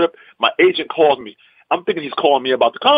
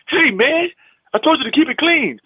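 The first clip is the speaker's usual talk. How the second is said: high-pitched mock scolding; acted-out telling-off; annoyed club manager; 12 semitones higher than usual. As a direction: imitate an indignant complaint, pitched well up. Club man confronts him over dirty material.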